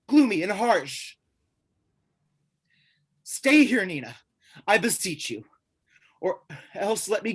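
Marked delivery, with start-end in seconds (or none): 3.2-3.8 higher and louder, begging; desperate plea. Acted. Pleads with her to stay. 3.8-4.1 Nina dropped low and much softer; broken soft name. Acted. Name falls away after plea.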